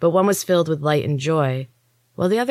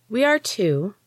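slow drawl; 7 semitones higher than usual. A narrator's reading. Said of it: "she said slowly, drawing out each word".

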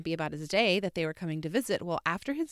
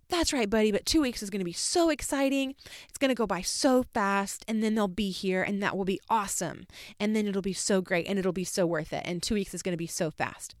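overly upbeat reassurance; 2 semitones higher than usual. Retold or imitated. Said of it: "immediately say".

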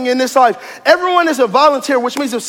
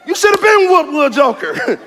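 mock scolding.

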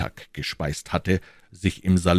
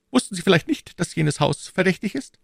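higher royal voice, firm; the king's voice, raised pitch; 13 semitones higher than usual. A narrator's reading. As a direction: speak as the king, assured. King voiced.

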